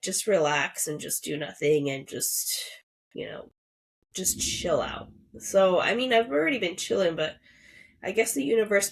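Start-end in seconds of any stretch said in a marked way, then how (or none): 0.0-5.1 soothing whisper. Retold or imitated. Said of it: "your energy is just telling you, like".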